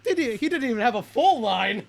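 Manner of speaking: high, laughing disbelief; giggling while protesting. Real, not acted. Still laughing at the cameo.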